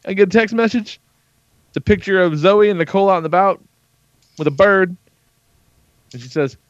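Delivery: normal talking voice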